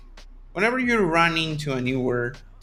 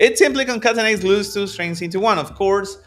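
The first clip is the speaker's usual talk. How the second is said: a light put-on British accent, a touch higher and louder; reading the textbook line in a hammed-up British accent; mock British accent; 4 semitones higher, 3 dB louder than usual. Teacher reads to his students in a mock British accent. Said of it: "hacer mi acento británico".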